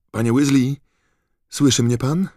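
high, loud call into the fireplace. Acted. Harry calls into the bricked fireplace to Mr Weasley, loud call. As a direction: call out so he hears through the wall. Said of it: "zawołał".

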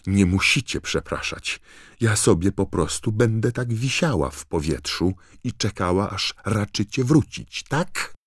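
high, indignant sarcasm; angry call. A narrator's reading. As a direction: huffily call after them, pitch climbing to a sharp question. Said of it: "zawołała za nimi ze złością gruba dama". (wysoko, z urażoną złością i sarkazmem)

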